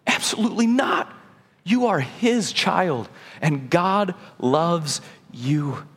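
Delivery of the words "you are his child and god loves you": tender, slow. Real, not acted.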